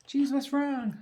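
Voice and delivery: high, startled worried ask; startled at the shout from the other room; alarmed question. Retold or imitated. Wife answering husband's cry, high startled question. Her alarmed reply retold.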